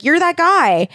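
high-pitched, hammed-up realization; playful amazed discovery; mock recognition. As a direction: say it high, as if suddenly recognizing someone. Squire's acted moment of recognition.

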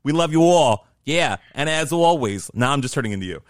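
loud, overdone stab at a Massachusetts accent; botched Massachusetts accent. Shown as a demonstration. Co-host copying host's sign-off, bad Massachusetts accent. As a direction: badly fake a Massachusetts accent, loudly. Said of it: "That's not even Massachusetts".

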